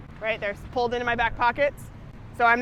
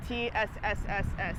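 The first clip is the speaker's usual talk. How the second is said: drawn-out s like a snake. Shown as a demonstration. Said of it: "We wanna hiss".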